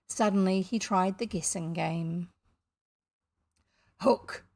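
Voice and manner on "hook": brief, mild call. A narrator's reading. Captain hails the mysterious voice, calling. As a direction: call his name across the water. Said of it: "he called".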